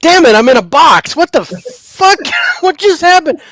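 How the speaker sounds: high, loud mock panic of a trapped spirit; trapped spirit's whine. A spirit trapped behind the barrier, squealing high in mock panic. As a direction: play the spirit stuck in a box, high and indignant. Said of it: "it's like coming in going".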